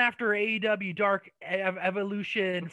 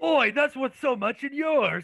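mock British; 5 semitones higher, 3 dB louder, slower than usual. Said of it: "mocking Wade's commentary".

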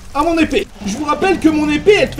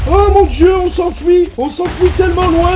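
higher and louder, fleeing in alarm; panicked cry; 4 semitones higher, 3 dB louder than usual. Real, not acted. Player runs from summoned wizards crying out in panic. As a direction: cry out as you run away.

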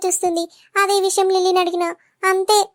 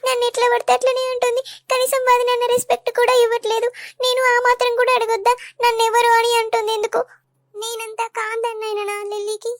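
tearful complaint; 4 semitones higher than usual. Acted. Wife complaining tearfully about her sister-in-law, sad. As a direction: sound close to tears as you complain. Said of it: "ఏడుస్తున్నావా?".

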